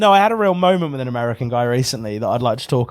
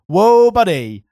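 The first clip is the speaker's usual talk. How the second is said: firm refusal; 5 dB louder, much slower than usual. Retold or imitated. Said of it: "I had to be like".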